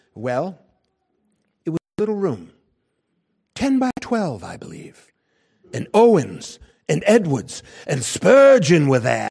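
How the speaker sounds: small, demure voice. Retelling a historian's answer about a little room: Iain Murray's little demure voice. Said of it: "in his little demure voice".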